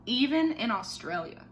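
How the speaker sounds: put-on expressive read-aloud for children; story reading. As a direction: tell the story to a class of kids. Teacher reads picture book aloud.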